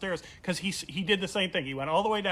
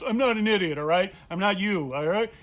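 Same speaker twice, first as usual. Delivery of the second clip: indignant retort; 3 semitones higher, 6 dB louder than usual. Retold or imitated. Friend snapping back.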